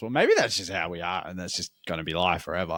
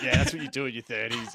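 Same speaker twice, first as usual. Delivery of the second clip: laughing. Retold or imitated. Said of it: "I'm like".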